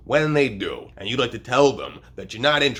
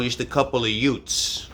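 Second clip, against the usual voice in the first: put-on Brooklyn accent; 3 semitones higher than usual. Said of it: "my cousin Vinny when he's talking to the judge".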